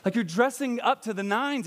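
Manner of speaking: high, slow mock reprimand; Paul chiding. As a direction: scold the women for dressing up. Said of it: "and he's like".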